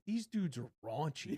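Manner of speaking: slow, laughing scandalized voice; shocked onlooker. Retold or imitated. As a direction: play the shocked prude, amused. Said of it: "having people gasp and be like".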